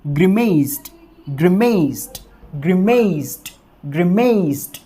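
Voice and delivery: ग्रिमेस्ड with stress on the m and a t ending; pronunciation drill. Shown as a demonstration. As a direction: repeat ग्रिमेस्ड clearly for students. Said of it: "तो जब हम इसको pronounce करेंगे".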